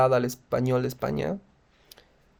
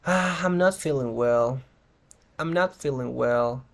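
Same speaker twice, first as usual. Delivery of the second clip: downbeat; slower than usual. Shown as a demonstration. Models downbeat answers to how are you.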